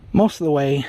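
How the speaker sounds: talking while short of breath; winded from the climb, catching breath. Real, not acted. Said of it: "I'm out of breath".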